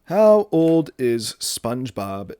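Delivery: slow, drawn-out while typing; half-distracted search voice. Real, not acted. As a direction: spell it out as you type. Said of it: "gotta look this up now".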